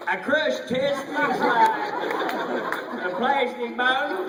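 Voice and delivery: imitating a costar's Russian accent; Norman's Russian attempt. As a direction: copy the Russian line clumsily. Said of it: "Norman goes".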